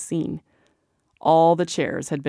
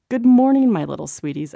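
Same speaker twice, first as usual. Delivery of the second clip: grinning greeting; 4 semitones higher, 7 dB louder than usual. A narrator's reading. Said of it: "I grinned".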